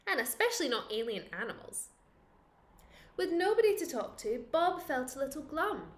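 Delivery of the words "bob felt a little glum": usual speaking voice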